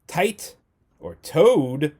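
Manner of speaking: tight and toad called out loud and high; playful options. Shown as a demonstration. Teacher quizzing students with a silly choice, playful. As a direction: call out the two choices playfully. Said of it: "Number eight".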